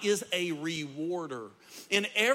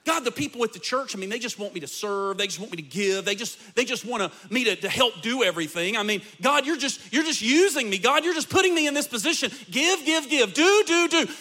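skeptical complaining; 4 semitones higher, 3 dB louder than usual. Retold or imitated. Pastor acting out a believer complaining to God, building whine. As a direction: grumble at God, rising into a mock tantrum. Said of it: "you can be skeptical and you can think".

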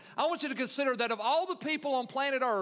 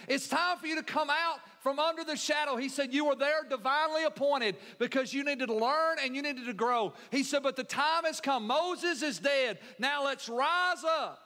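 higher, emphatic preacher's summons; forceful preaching; 5 semitones higher than usual. Acted. Preacher voicing God's summons to Joshua, forceful preaching. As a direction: preach it as an urgent call.

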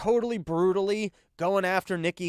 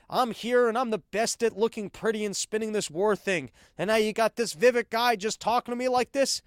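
mock-haughty, higher and prissy; snobby elitist Haley; 5 semitones higher than usual. Comedian mocks Nikki Haley at the debate, snooty elitist voice. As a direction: play the offended country-club snob.

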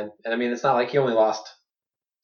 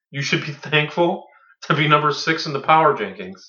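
mock condescending; 3 semitones higher, 5 dB louder than usual. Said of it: "that's just how you say it".

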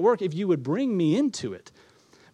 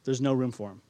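dismissive innkeeper. Acted. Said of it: "in the innkeeper's voice".

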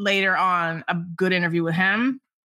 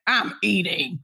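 lower-pitched mock dismissal; curt rebuff; 4 semitones lower, slower than usual. A singer brushes off the reporter mid-meal, curt. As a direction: shut down an eager fan. Retold star rebuffing an eager fan.

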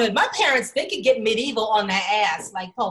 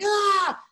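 put-on higher childish yell; mock tantrum scream; 9 semitones higher than usual. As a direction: tantrum shriek of a five-year-old. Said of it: "I freaked out".

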